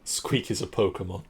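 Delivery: hushed joke; whispering. Real, not acted. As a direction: whisper the quip.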